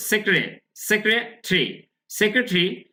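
"সেক্রেটারি" taken apart as sek-re, tri; syllable-split pronunciation. Shown as a demonstration. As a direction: model "সেক্রেটারি" in careful pieces. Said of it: "খেয়াল করুন".

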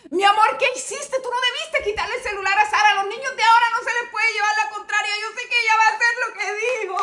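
frightened mother reproaching her husband, near tears; panicked pleading. Acted. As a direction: plead with him, breaking toward crying. Mother panics after phone taken.

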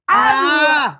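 sharp caught-out ah; startled yelp. Real, not acted. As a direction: yelp like you got caught. Caught out in thumb game.

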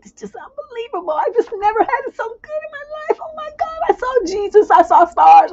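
very high, rising to a loud cry; overwhelmed with bliss; ecstatic gush. Retold or imitated. Lover raving about the night, high and loud.

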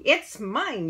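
put-on storyteller's high, loud child's yell. A narrator's reading. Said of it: "yelled four".

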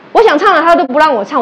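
imitating the upset student's complaint; petulant outburst. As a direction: throw a childish tantrum. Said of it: "他怎么在发脾气耶".

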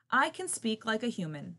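high squawky boast; squawking parrot. Acted. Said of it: "squawked the parrot".

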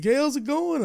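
high, loud, cheery greeting from the regular; imitating the bar lady. Bar regular greets her favourite bartender, high and loud. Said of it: "She's like".

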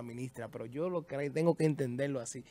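ordinary talk, nothing marked

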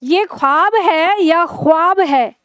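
"ख्वाब" said slowly twice, first with a throaty Urdu kh like German ach, then with a Hindi aspirated kh; two ways to say a word. Shown as a demonstration. Teacher quizzing students on the Urdu sound, slow contrasting demo. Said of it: "पहला या दूसरा?".

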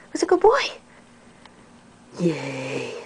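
soft whisper to a pet. Real, not acted. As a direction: whisper it tenderly. Whispered to dog.

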